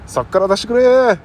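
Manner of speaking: loud, high pleading prisoner; trapped prisoner. Acted. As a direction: wail to be let out. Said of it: "「出してくれ」とかやるんじゃない？".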